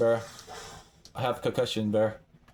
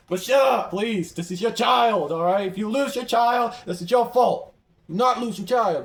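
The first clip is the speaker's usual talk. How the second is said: raised, higher insistent voice; heated scolding; 4 semitones higher, 3 dB louder than usual. Real, not acted. Player warning about losing your child, heated scolding. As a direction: lay the blame, loud and high.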